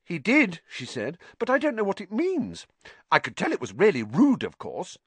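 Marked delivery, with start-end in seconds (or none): 0.0-0.6 put-on high-pitched girl confirming; earnest, high insistence; Hermione. A narrator's reading. Voices Hermione. 1.4-5.0 put-on high-pitched earnest girl; Hermione. A narrator's reading. Voices Hermione.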